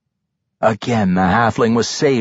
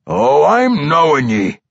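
raised, drawn-out dwarf threat; menacing dwarf; 5 semitones higher, 4 dB louder than usual. A narrator's reading. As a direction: answer with menacing recognition. Undead dwarf threatens Regis, narrated.

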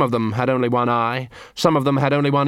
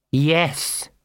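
higher, drawn-out single-word reply; mad poodle leader; 4 semitones higher than usual. Acted. Mad Big Fido answers.

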